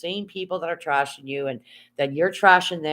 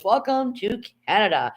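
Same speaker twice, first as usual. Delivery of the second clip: mock GPS voice; 6 semitones higher than usual. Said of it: "and it goes".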